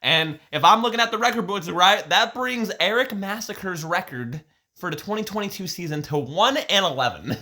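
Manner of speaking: put-on disguise your voice with a southern accent; mock southern commentator accent. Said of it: "I was doing a southern accent to, to disguise my voice".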